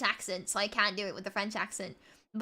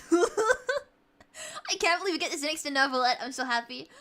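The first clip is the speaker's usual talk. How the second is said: happy laughing; 3 semitones higher than usual. Real, not acted. Overjoyed at sitting by favourite.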